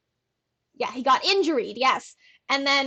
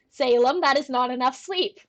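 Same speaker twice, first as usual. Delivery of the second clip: mock scolding. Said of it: "Clip this".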